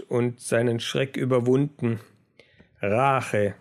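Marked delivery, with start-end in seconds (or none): 2.8-3.5 understated dark growl; finster geknurrt. A narrator's reading. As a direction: growl it grimly, a touch lower. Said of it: "knurrte er finster". (leicht finsteres Knurren)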